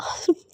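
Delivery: quiet breath of a giggle; brief hushed chuckle; soft short laugh. Acted. Partner teased with pain, soft laugh. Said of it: "तो आप हंस क्यों रहे हो".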